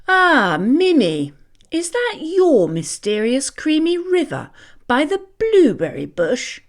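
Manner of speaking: a hint of a cheeky insect; lightly voiced grasshopper. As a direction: grasshopper teasing Mimi about the cream.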